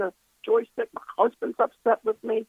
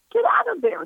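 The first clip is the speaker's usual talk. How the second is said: high-pitched mock scolding; upset husband, retold; 12 semitones higher than usual. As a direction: imitate an exasperated husband, voice jumping up. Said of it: "He's so upset at me".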